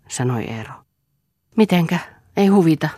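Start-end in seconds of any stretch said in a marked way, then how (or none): 1.6-2.9 sharp rising disbelief, louder and higher; startled echo. Acted. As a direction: throw his words back at him in shock. Lea echoes his words, startled.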